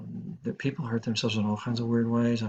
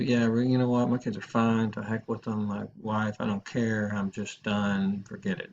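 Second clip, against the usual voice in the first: no ambivalence. Acted. Teacher acting a decided caller, resigned. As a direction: play someone who has given up, mildly. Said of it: "There's no ambivalence".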